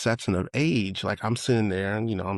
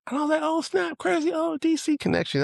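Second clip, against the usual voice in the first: much higher, thrilled oh snap; excited. Real, not acted. Telling friend about Howard link, thrilled and high. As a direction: squeal out the shared connection. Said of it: "excited about shared DC link".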